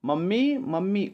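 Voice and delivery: high, rising call for mother. Acted. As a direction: call her from the next room. Calling mother to the room.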